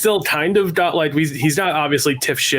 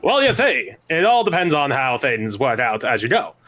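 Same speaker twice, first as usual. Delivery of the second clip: Connecticut accent. Shown as a demonstration. Put on the spot, showing the podcast his Connecticut accent. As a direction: show off the silly Connecticut accent. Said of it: "So that is the Connecticut-based accent".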